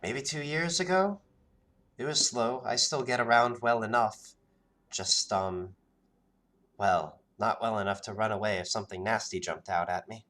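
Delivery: a hint of a wary young woman, brushing it off; wary villager, lightly voiced and a bit rushed; Karina's voice.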